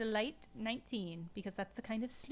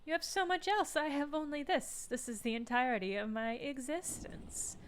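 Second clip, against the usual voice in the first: pleading; 6 semitones higher than usual. Acted. Amnesiac detective pleads with negotiator.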